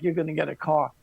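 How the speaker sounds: sarcastic echo. Retold or imitated. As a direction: toss the words back with disbelief. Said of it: "And they're like".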